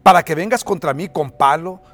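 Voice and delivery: mock roar at a small opponent; roaring Goliath. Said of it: "le rugió a David".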